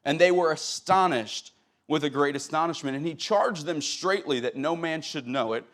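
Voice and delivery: steady Bible reading to the congregation; scripture reading. Acted. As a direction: read the King James text with reverence. Reads scripture aloud.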